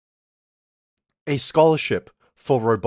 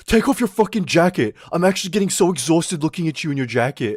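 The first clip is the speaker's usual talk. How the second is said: mock the whining classmates; annoyed classmates; 5 semitones higher than usual. Classmates complaining an hour.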